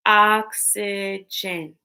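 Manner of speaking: oxygen slowly, in three separate beats; oxygen split into syllables. Shown as a demonstration. Teacher breaking words into parts with pupils, oxygen split in three. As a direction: space out each syllable of oxygen. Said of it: "Break words into parts".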